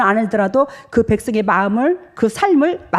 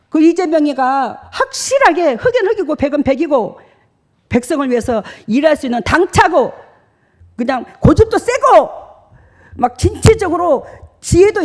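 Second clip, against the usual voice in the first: heated praise; 7 semitones higher than usual. Retold or imitated. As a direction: rave about him with fire. Man praises Lee heatedly.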